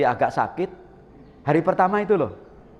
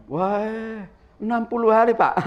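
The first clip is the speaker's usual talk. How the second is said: stating the penalty; 6 semitones higher than usual. Retold or imitated. Preacher gives the penalty.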